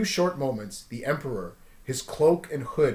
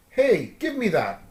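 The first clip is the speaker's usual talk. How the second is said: demanding; 7 semitones higher, 5 dB louder, slower than usual. Acted. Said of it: "demanded Luke".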